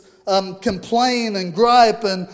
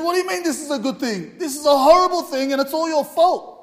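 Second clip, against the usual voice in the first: higher-pitched mock indignation; furious king; 4 semitones higher than usual. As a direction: retell a furious king, voice lifted. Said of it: "the king was furious".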